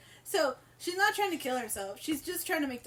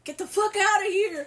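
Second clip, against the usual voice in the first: higher, louder mock yell; 8 semitones higher, 9 dB louder than usual. Brothers chase Lila from the door, loud mock yell. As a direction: bark them off the doorstep. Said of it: "they're like".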